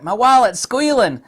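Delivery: high, loud mock wail. Southerner wailing about an empty wallet, high and loud. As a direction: wail it like a broke buyer. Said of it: "It's like".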